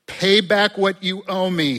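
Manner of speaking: loud, high threatening order; harsh demand. Acted. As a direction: bark the demand at the debtor. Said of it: "he demanded".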